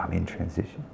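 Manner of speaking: mocking quote. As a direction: sneer softly at the excuse. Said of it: "I love these people".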